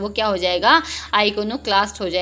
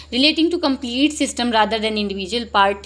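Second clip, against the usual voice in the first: slow reading; much slower than usual. Shown as a demonstration. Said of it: "reading options slowly".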